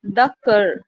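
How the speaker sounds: "the cur" with the weight on "cur"; stress on cur. Shown as a demonstration. Teacher giving another iambic example, stress on "cur". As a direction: lean on "cur" and leave "the" unstressed. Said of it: "again कर पे stress है".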